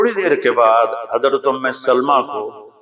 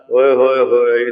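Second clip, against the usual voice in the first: playful echo of wonder. Retold or imitated. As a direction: tease back with affectionate delight. Prophet playfully echoes the exclamation. (پیار بھری حیرت سے جواب)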